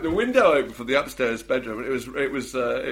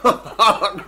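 sheep bleat; 8 dB louder than usual. Retold or imitated. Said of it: "he's sitting there going".

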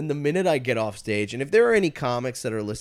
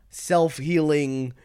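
mock; 4 semitones higher, 3 dB louder, much slower than usual. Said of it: "kind of self-aggrandizing".

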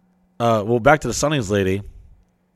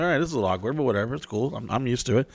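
casual; 6 dB quieter, much faster than usual. Retold or imitated. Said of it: "I'm like".

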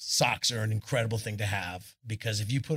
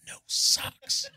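laughing. Retold or imitated. Punchline to Eddie, laughing.

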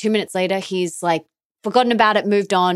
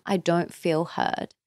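slow and softer, a sincere quiet plea; soft, earnest; 6 dB quieter, slower than usual. Retold or imitated. Wife tells husband quietly and slowly how she feels. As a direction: say it slowly and gently, honestly hurt. Wife calmly voicing her feelings.

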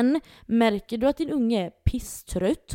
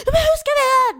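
upset mother; 8 dB louder, faster than usual. Retold or imitated. Mamman svarar gråtfärdigt.

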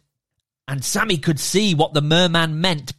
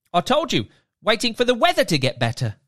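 merman; 6 semitones higher, faster than usual. Acted. Merman character voiced.

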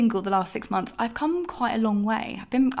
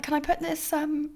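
imitating the guy; 6 semitones higher than usual. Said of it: "And he's like".

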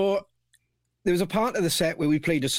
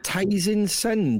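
reading slowly; 3 semitones higher, much slower than usual. Shown as a demonstration. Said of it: "Julie Penn has said".

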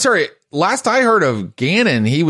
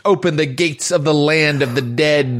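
fantasy narration. Acted. Game master opens scene.

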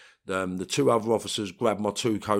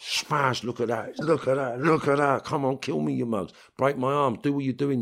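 defiant taunting; 6 semitones higher, 3 dB louder than usual. Retold or imitated. Taunting officers while headbutting floor.

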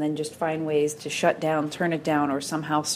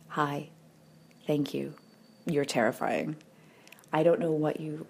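poem reading. Acted. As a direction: read it like a letter to a new self. Reads her poem The Word Welcome.

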